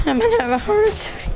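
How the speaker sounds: "I'm gonna have a heart attack" squeaked high and rushed; high fast squeal. Real, not acted.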